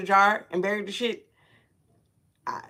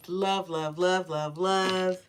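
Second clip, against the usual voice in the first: warm and fuzzy; 3 dB quieter, slower than usual. Real, not acted. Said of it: "That's why I'm talking like that".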